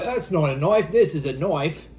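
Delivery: put-on light Crocodile Dundee style Australian accent, knife said "noife"; mock Australian accent. Joking for the camera in an Australian accent. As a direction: toss off the famous line in a jokey Australian accent. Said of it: "your obvious Australian accent".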